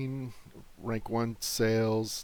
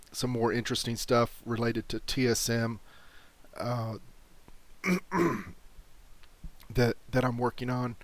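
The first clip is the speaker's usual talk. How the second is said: losing voice. Real, not acted. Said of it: "sorry, I'm losing my voice".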